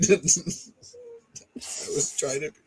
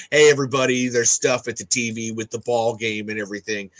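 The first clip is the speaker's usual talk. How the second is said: lightly hammed-up stereotypical American accent; overdone American everyman accent; exaggerated American accent. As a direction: imitate a Brit faking an American accent. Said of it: "British actors do that American accent".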